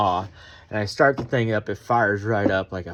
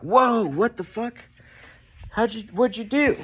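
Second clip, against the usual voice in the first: mock freaked-out kid; 12 semitones higher than usual. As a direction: play the startled kid. Kid flipping out, quoted.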